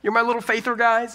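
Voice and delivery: imitating an exasperated but loving teacher. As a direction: chide your friends fondly, without shaming them. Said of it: "So less shame and more".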